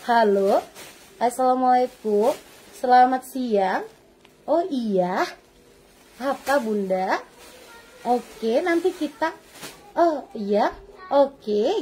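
lazy admin three. Retold or imitated. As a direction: answer like you can't be bothered. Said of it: "Kalau Bunda dengar ngomongnya seperti ini".

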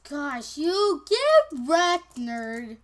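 drawn-out taunt. Real, not acted. Taunting after a kill.

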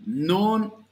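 ordinary delivery

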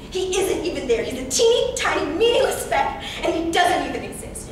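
contemptuous. Acted. Contemptuous dismissal of captor.

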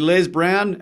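loud, high star-struck hello; thrilled fan saying his idol's name; excited greeting. Retold or imitated. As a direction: call his name like meeting a hero.

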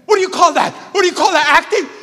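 loud, high, mock-scornful; imitating the teacher's scolding. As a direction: channel the old director's voice at a student. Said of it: "and you say".

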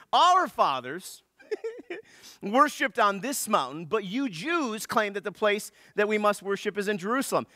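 lightly voiced woman showing off her knowledge; intellectual woman. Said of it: "look at her dissertation".

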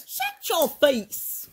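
a lightly put-on toy voice, slow at the end; playful mock insult in a toy's voice; toy voice squabble. Toy voice quarrel.

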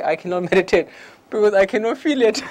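retelling his own excuse through laughter; laughing. Retold or imitated. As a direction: laugh while quoting your old self. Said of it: "I say".

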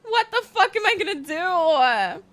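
hammed-up wail of exasperation; playful, exaggerated despair; mock outrage. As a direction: whine it as pretend fury. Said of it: "I was about to be so mad".

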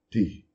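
"ti" short and weak; barely touch "ti". Shown as a demonstration. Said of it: "Um I curto, fraco". ("ti" curto e fraco)

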